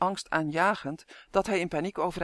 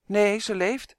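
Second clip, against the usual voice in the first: relieved; 3 semitones higher, 4 dB louder, slower than usual. Acted. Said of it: "zei hij opgelucht".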